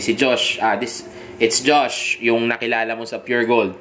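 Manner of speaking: easy, unhurried self-intro; calm and sure of yourself; confident tone. Shown as a demonstration. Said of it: "ganong klaseng tono". (kumpiyansang pagpapakilala)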